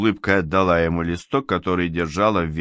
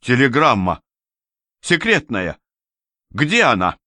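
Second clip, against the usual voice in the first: higher, louder panicked cries; alarmed; 4 semitones higher, 3 dB louder than usual. Acted. Official remembers the secret telegram, alarmed cries. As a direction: gasp it in sudden panic.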